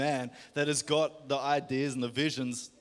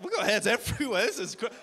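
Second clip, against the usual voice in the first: amazed excitement; 11 semitones higher, 4 dB louder than usual. Real, not acted. Pastor seeing hands raised everywhere, high and thrilled. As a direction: pitch jumps way up in delighted disbelief.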